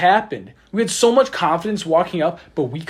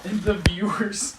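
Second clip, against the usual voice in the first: slow breathy whisper aside; slow whispered add-on; 4 semitones higher, 4 dB quieter, slower than usual. Real, not acted. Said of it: "whispered aside".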